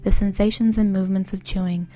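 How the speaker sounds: measured, evenly paced mindfulness guide; guided meditation. Acted. Guiding a listener through eating food mindfully, guided meditation voice. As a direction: lead them through it calmly, pausing between phrases.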